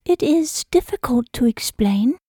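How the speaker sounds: breathy whispered confession. A narrator's reading. Hannah admits to him why she came, whispered. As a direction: hush it out, unsure how to say it.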